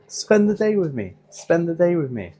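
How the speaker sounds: high sing-song title line. Pretend. Vlogger chanting the video title in a high sing-song.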